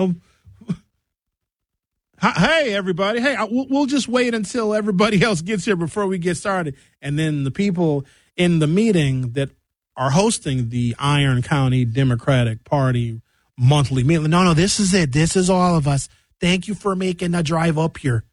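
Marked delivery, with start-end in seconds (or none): 2.2-6.8 lightly acted, higher-pitched stalling hello; hint of a politician stalling hopefully; awkward candidate greeting. Candidate stalling before five people in the room, awkward greeting. 14.3-18.2 lightly mocked Wisconsin accent. Local hosts thanking the candidate for driving up, Wisconsin accent. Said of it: "they got that Wisconsin accent".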